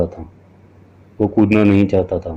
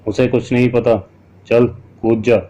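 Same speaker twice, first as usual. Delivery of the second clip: a hint of a harsh girl's voice; lightly voiced stern girl ordering; 3 semitones higher than usual. Girl ordering the man to jump, mildly stern. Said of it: "वो कड़क आवाज़ में बोली".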